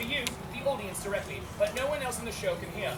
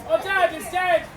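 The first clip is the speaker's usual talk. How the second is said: loud, higher-pitched comic announcement; mock outcry; 4 semitones higher, 7 dB louder, slower than usual. Sons finding their father dead, mock outcry. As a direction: exclaim it for a crowd to repeat.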